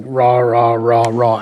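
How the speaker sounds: low, slow mock growling "rah"; grumbling imitation of an argument; mock bickering noise. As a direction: imitate people squabbling in low, drawn-out rahs. Imitating noisy ungentle bickering.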